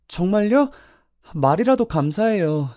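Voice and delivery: high-pitched, grateful reaction; light up at an unexpected offer of help; delighted surprise. Acted. Student delighted by teacher's job offer. (놀라고 반가워하는 높은 목소리)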